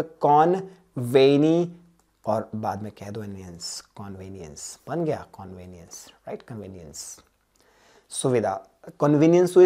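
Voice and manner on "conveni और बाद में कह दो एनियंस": teacher building the word from "Conveni-" and "एनियंस"; split for memorising. Shown as a demonstration. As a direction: draw out "Conveni-", then add "एनियंस" as a separate part. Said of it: "उसको कैसे बोलोगे".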